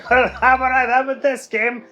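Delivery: high, loud indignant protest; rising outrage, nearly squeaking; indignant outburst. Real, not acted. Gamer protesting to the game that he already earned a medal, high and indignant.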